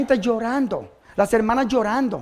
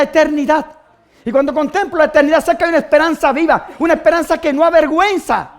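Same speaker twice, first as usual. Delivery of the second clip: raised, emphatic preacher voice; fervent preaching; 5 semitones higher, 8 dB louder than usual. Acted. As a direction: preach it with rising conviction. (predicación fervorosa)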